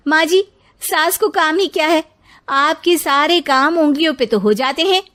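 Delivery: taunting. Acted. Bahu taunts mother-in-law.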